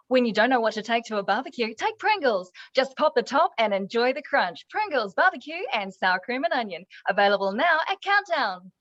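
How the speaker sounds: upbeat, lilting commercial voiceover; radio ad read. Shown as a demonstration. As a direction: sell it like a short radio spot. Reads a radio ad spot.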